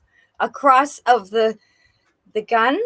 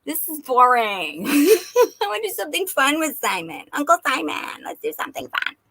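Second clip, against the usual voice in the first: put-on bored little girl; 4 semitones higher than usual. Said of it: "with her doll sitting on the desk going".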